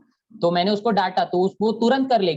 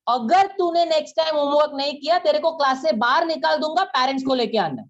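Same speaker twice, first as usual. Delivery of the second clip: serious threat; 7 semitones higher than usual. Retold or imitated. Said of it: "sir, आप तो पूरा serious हो रहे हो".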